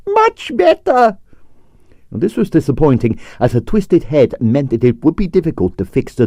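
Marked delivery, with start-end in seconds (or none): 0.1-1.2 put-on Russian accent. Stroganoff's accented approval.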